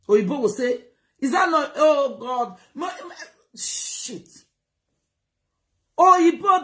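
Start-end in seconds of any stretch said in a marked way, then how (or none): 1.2-4.3 laughing through a mocking lament; fake-pity wail breaking into laughs; mock dismay with laughter. Vlogger mocking foreigners' reaction, laughing mock lament. 6.0-6.6 high, loud cry of a name; loud call out. Real, not acted. Vlogger calling out to his audience, loud high call.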